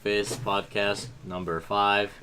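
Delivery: slow, stiff robot announcer; drawn-out monotone robot intro. Pretend. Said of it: "I sound like a robot".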